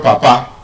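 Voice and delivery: "Papa" with full vowels, lifted at the end; wrong pronunciation. Shown as a demonstration. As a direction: say "Papa" with no schwa, rising. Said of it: "It's not".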